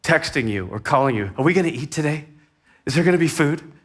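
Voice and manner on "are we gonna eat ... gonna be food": put-on whiny kids. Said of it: "your kids were texting you".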